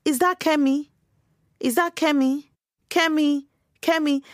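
calling her name. Retold or imitated. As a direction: imitate strangers in a crowd calling her name. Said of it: "people I didn't know calling my name".

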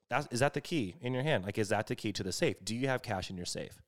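imitating a robber's casual, calm questioning; retold calm. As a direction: ask it softly, as if completely normal. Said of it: "like, completely calm".

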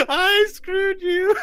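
very high, loud gnome squeal broken by cackles; hysterical laughing. Acted. Spellbound gnome taunting the robbed adventurer, hysterical laughing. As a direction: force the taunt out between fits of laughter. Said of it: "he starts laughing hysterically at what you say".

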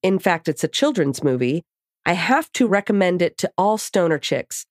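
bright, lively letter reading; reading a letter aloud. Acted. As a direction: read the email out with energy. Reads a listener email aloud.

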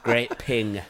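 Yorkshire ad voice. Acted. Repeats his Yorkshire advert bit.

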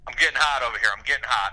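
breathless while pacing; winded, talking between breaths. Real, not acted. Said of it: "I'm out of breath".

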